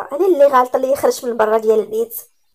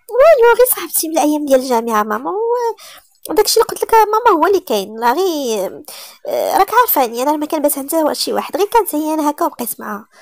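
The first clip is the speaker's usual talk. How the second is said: higher, louder, flustered rush of excuses; nervous excuses; 5 semitones higher, 6 dB louder than usual. Acted. Daughter nervously explains to her mother where she slept. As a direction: scramble to cover the lie.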